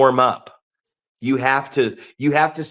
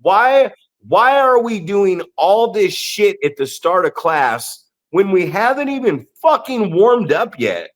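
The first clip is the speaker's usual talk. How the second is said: aggressive rant; 5 semitones higher than usual. Retold or imitated. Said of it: "I start to get a, aggressive".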